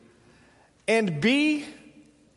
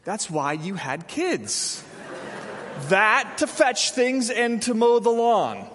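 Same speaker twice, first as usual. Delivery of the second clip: mock kindly; 2 semitones higher than usual. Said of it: "explain to them kindly".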